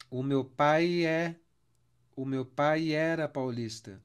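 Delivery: pai era linked as one sound, paj-ɛ run together; vowels joined. Shown as a demonstration. Teacher showing students the vowel elision, slow. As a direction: glide pai into era slowly. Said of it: "quando eu tenho duas vogais juntas".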